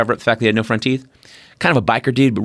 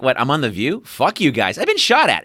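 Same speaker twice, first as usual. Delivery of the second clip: defiant attitude; 3 semitones higher than usual. Retold or imitated. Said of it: "her attitude's like".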